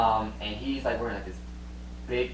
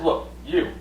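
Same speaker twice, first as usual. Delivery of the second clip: put-on old man scolding; 5 semitones lower, 4 dB quieter than usual. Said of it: "he's like".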